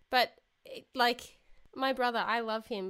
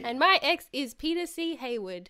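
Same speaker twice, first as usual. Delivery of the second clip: echoey empty hallway sound; talking in a big echoing hall; 2 semitones higher, 4 dB louder than usual. Real, not acted. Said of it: "why I sound so echoey".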